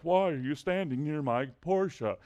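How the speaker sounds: mock-suspicious owner's voice; lightly acted wary demand; imitating a suspicious look. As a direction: put on a wary Porsche owner. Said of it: "gave me a look like".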